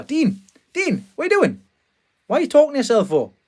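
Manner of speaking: neighbour's little girl calling Dean over the fence, high mock child voice; imitating a little girl calling. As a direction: call over the fence like the kid next door. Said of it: "little girl from next door was shouting over".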